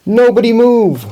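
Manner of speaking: very high, loud shriek; shrieked order. A narrator's reading. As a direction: shriek a panicked command. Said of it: "Miss Penny shrieked".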